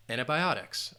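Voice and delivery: antibiotics with stress on bi, said as BY; pronunciation demo. Shown as a demonstration. Teacher answering how to pronounce antibiotics, clear model. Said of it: "How to pronounce".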